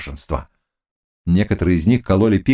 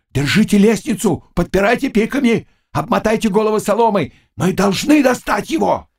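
high, urgent commands; shouted commands; 10 semitones higher than usual. Acted. Old cossack commanding.

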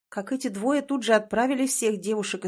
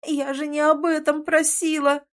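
moaned; 7 semitones higher, 4 dB louder than usual. A narrator's reading. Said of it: "простонала".

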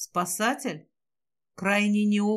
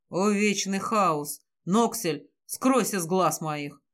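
commanding; slower than usual. Acted. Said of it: "скомандовал мужчина".

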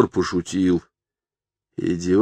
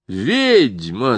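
rapturous shout; 4 semitones higher than usual. Acted. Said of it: "закричал Рома в упоении".

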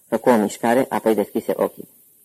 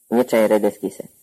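ordinary delivery

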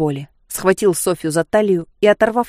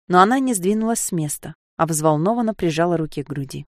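ordinary delivery, nothing marked

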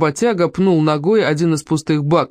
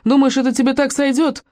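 angry yell; 7 semitones higher than usual. A narrator's reading. Doctor yelling at the truck driver after the crash, angry shout. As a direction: bawl him out, pitch up. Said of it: "заорал он".

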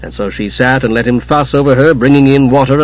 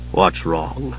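softly; 7 semitones lower, 9 dB quieter than usual. A narrator's reading. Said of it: "he asked softly".

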